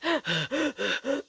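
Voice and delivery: a ragged, breathless gasp for air; imitating being winded; huffing gasp. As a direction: gasp like you've run out of breath. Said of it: "I was huffing like".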